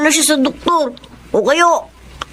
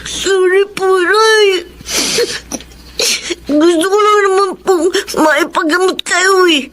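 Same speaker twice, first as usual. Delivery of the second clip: higher voice, close to crying; tearful apology; 3 semitones higher than usual. Acted. Son tearfully apologizes to his mother. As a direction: plead through tears.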